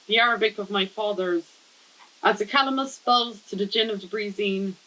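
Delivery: measured, lightly performed poetry reading; poem reading. Acted. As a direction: read your poem aloud in even, paused phrases. Reads the title poem aloud.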